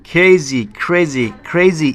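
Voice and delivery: "ক্রেজি" slow and stretched, ending on a clear ee. Shown as a demonstration. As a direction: draw out "ক্রেজি" to show the final ee. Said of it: "ই হবে এখানে". ("ক্রেজি" টেনে, শেষে ই স্পষ্ট করে)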